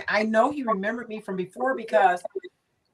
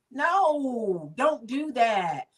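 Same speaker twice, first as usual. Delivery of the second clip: mild mock warning; 4 semitones higher, much slower than usual. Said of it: "I'm like".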